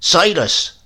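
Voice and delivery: loud, high stern call of his name; stern grandmother. A narrator's reading. Grandmother rebukes Silas, loud and stern. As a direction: summon him to account.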